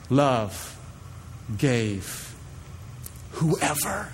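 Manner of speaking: hushed emphasis. Acted. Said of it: "preaching emphasis".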